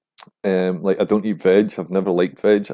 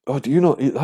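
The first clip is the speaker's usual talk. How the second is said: higher, nagging mimicry; mocking pushy person; 5 semitones higher, faster than usual. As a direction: imitate someone pushing food on you. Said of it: "saying, like".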